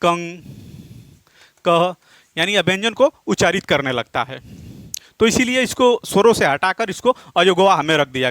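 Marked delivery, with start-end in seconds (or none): 0.0-2.0 "कंग, कह" said as two separate syllables, nasal ending then h ending; pronunciation demo. Shown as a demonstration. Teacher showing how the added sign is pronounced with a consonant, "कंग, कह" sounded out separately. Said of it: "ये उच्चारित कर देता है".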